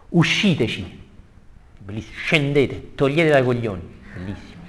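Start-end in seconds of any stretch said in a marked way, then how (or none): 0.1-1.1 raised-pitch curt order; Fleggias. Acted. Ferryman speaking to his passengers, acted curt order. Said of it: "quindi parla Fleggias". 2.2-4.0 mock rude ferryman's order; Fleggias. Ferryman ordering passengers off, mock gruff dismissal. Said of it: "quindi parla Fleggias".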